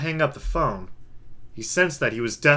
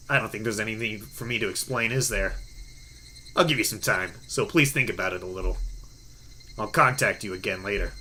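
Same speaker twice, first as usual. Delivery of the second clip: hoarse metallic voice; 5 semitones lower, 6 dB quieter than usual. A narrator's reading. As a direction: speak low and unhurried as an anonymous caller. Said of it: "hoarse and metallic voice".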